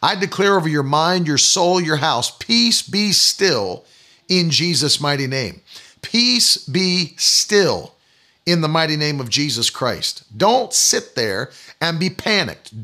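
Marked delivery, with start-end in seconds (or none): 2.3-5.6 very slow, drawn-out command; slow, sustained pronouncement of peace; solemn declaration. Real, not acted. Preacher declares peace over listeners. 6.0-10.2 very slow, drawn-out command; slow, sustained pronouncement of peace; solemn declaration. Real, not acted. Preacher repeats the declaration slowly.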